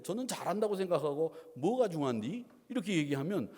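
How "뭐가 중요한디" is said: casual Chungcheong-accented question; Chungcheong dialect. Shown as a demonstration. Pastor shows his Chungcheong accent to congregation. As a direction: show off your Chungcheong dialect lightly. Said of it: "충청도 사투리는 제가 충청도에 오래 살았기 때문에".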